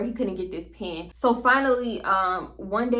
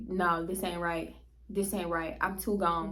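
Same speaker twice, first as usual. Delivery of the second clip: dazed; 3 semitones lower, 7 dB quieter than usual. Retold or imitated. Dizzy and too high.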